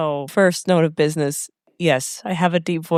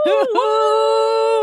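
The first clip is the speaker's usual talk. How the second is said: high-pitched celebratory whoop; excited woo; 4 dB louder than usual. Real, not acted. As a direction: let out a high, drawn-out woo. Celebrating a listener shout out.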